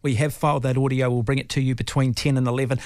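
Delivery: upbeat broadcaster link after the interview; radio announcer read. Acted. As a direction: announce what's coming up like a radio host. Host switches to on-air announcement.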